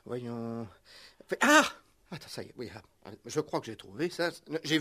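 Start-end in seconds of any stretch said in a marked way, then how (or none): 0.0-2.7 much softer, absent-minded; soft absent muttering; muttered to himself. Acted. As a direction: mutter to yourself while squinting. Owner muttering while looking.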